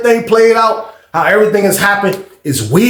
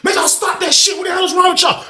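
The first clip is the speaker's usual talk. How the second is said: high, shouting order to stop; imitated police yell; 11 semitones higher than usual. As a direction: bark at them like a guard. Police breaking up fight.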